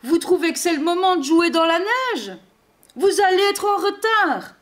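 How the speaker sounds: high, quick owl voice; scolding owl. A narrator's reading. Owl scolding Santa in the snow, high and hooting. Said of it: "ulule le hibou".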